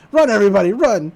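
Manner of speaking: loud mock shout of warning; hammed-up panicked yell; mock alarm. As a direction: holler for everyone to flee. Zeus acted yelling alarm at everyone.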